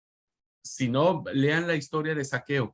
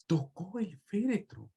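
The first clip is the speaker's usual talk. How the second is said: higher, soft and awed; hushed awe; 6 semitones higher, 7 dB quieter than usual. Shown as a demonstration. Preacher repeating the verse to the congregation, hushed in awe. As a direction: let the words hang in wonder.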